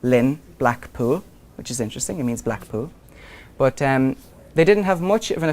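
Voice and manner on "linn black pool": slow, drawn-out "linn". Shown as a demonstration. Teacher to class, slowly sounding out "linn". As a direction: linger on "linn" to show the Irish word. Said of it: "the word Dublin actually means".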